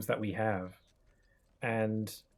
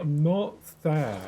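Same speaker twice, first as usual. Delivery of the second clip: slow, louder teary protest, imitated; mock tearful; 3 semitones higher, 5 dB louder, slower than usual. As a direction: act out a stuffed-up, weepy denial. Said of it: "why are you crying".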